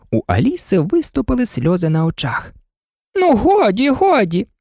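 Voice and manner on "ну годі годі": high, urgent cry of the fretful queen; flustered Queen calling out high; exclaiming. A narrator's reading. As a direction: wail it out, hands wringing in despair. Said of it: "вигукнула бідна королева".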